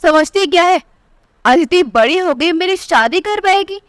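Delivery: a mother yelling at her daughter, voice jumping up; shouting angrily. Acted. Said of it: "Meera जोर से चिल्ला रही थी".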